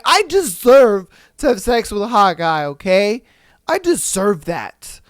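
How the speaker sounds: imitating an indignant self-justification; mock entitled girlfriend. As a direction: insist on it like a defiant cheater, lightly acted. Acts out the cheating girlfriend's defence.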